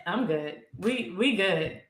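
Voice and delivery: feigning calm. Acted. Assuring a friend all is fine, feigning calm. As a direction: act unbothered, dropping back down. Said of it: "act like we're not mad".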